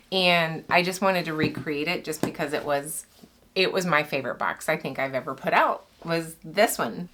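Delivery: breathless talking; short of breath while speaking. Real, not acted. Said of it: "I'm kind of out of breath".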